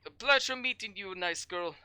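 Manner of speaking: lightly voiced friendly send-off; Helga's goodbye. Helga saying farewell to Josephine, lightly voiced. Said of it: "Helga says".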